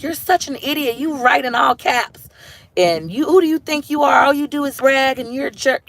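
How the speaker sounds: hammed-up insulting YouTube group members; mocking critics. Imitating group members insulting her, mock scolding. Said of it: "They're like".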